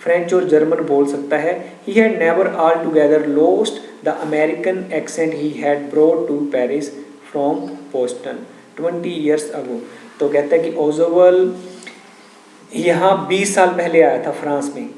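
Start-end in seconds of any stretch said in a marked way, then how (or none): 1.9-9.8 slow, measured textbook reading; story read-aloud. A narrator's reading. Teacher reading the story to students, slow measured read-aloud. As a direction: read out slowly, phrase by phrase.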